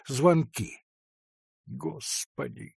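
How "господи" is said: sighing. A narrator's reading. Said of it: "вздохнула дьячиха".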